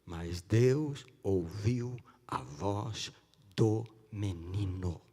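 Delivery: very slow, stretched words; slow, weighty recital of the verse; drawn-out quotation. Real, not acted. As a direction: linger on every word of the verse. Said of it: "ele falou, pastor".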